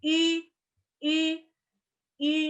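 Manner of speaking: I as "ü" with pouted lips; umlaut I. Shown as a demonstration.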